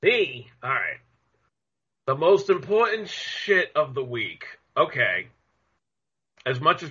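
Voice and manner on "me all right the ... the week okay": far from mic. Real, not acted. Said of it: "Is it just me or does the speaker sound like he's far away?".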